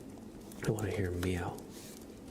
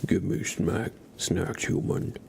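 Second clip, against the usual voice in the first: demanding cat voice; slower than usual. Acted. Voicing the cat demanding food.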